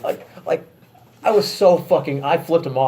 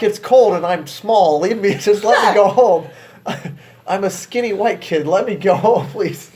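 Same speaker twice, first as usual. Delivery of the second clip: slow, louder whiny begging with laughs; mock pleading; 5 semitones higher, 4 dB louder, slower than usual. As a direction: beg like a pitiful small kid. Mock-begging the cop to leave.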